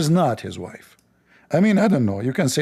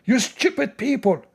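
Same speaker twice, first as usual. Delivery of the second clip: mock exasperated admin; 10 semitones higher than usual. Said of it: "he said".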